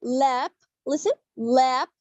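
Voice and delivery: LAP slow, tongue curled to the palate; teacher demonstrating "lap" with a curled L. Shown as a demonstration. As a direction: model the L in "lap" slowly. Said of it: "it sounds like that".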